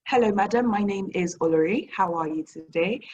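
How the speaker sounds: lightly put-on British accent on Hello, madam. Nigerian seller greeting a shop owner, mock British accent. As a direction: greet her in a posh-sounding British accent, not fully committed. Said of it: "Kia into British accent".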